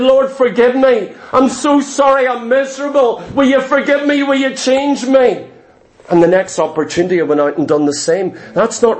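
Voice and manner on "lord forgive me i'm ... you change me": acted plea for forgiveness, pitched high; pleading prayer. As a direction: beg desperately in a high, sustained voice. Acted tearful repentant prayer, retold.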